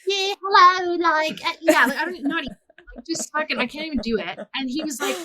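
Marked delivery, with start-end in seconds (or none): 0.1-2.6 high, loud, silly hello; child's fake voice. Child caller failing to sound adult, high silly mock voice. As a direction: squeak it like a kid faking a grown-up. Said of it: "meanwhile, it probably sounds like".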